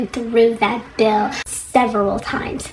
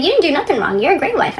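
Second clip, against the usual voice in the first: higher-pitched imitation of a placating husband; mock reassuring husband; 6 semitones higher, faster than usual. Husband telling his wife she's blameless, mock reassuring.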